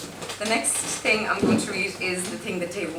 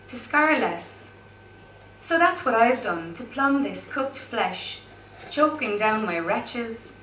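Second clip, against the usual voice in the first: poetry reading; slower than usual. Acted. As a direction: let each dark image land slowly. Reads her poem.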